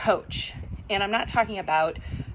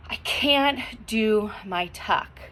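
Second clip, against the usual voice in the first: frustrated self-talk; 2 semitones higher, much slower than usual. Shown as a demonstration. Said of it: "Oh no, what am I gonna do?".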